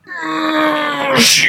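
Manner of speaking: put-on high, pained old-man groan; dad's groan. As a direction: groan like an old dad standing up. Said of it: "he goes".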